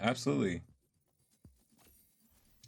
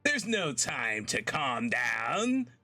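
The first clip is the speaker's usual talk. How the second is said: frantic teammate; 6 semitones higher, much slower than usual. Retold or imitated. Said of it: "He was like".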